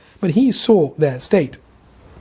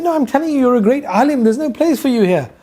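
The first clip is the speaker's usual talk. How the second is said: stern master; 8 semitones higher than usual. Acted. Murshid rejects Ghazali.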